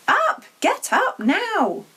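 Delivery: high, loud wake-up yell; screeching aunt; shrill shout. Acted. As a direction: bang on the door and yell him awake. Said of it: "her shrill voice".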